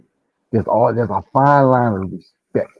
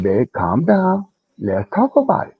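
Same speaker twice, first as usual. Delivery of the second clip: higher, slowed-down re-enacted plea; de-escalating plea; 4 semitones higher than usual. Man replaying himself soothing his partner, mild high plea. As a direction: coax an upset partner to calm down. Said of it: "I'm tired of being the calm one".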